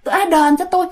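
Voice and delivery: lightly voiced, whiny ghost's demand; aggrieved ghost woman. Ghost woman repeats her demand to the little man, mildly plaintive. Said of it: "Mà bả nói vậy đó".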